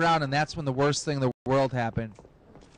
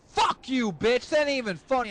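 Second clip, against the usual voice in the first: raised-pitch, indignant comeback; mock outraged snap at a bad joke; angry retort; 6 semitones higher than usual. Son rejecting father's reveal, high indignant outburst. Son snaps at prank, punches him.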